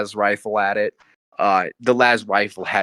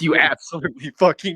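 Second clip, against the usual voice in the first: frustrated yelling; 7 semitones higher, faster than usual. Acted. Screaming at teammate in frustration.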